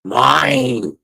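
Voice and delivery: slow, loud, gloating soul-thief declaration; menacing villain line. Acted. Soul snatcher gloating over his victim, slow and loud. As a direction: savour the claim like a movie villain. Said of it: "I palmed her fucking forehead and I said".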